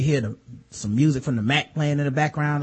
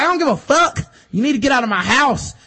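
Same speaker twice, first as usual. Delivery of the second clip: mock furious yell; 6 semitones higher than usual. Lysa yelling at Sansa.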